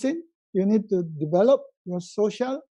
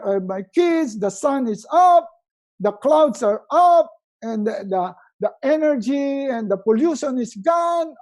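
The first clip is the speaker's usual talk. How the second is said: joyful wake-up; 5 semitones higher, 6 dB louder than usual. Shown as a demonstration. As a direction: gush with delight at being alive. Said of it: "I want you to say".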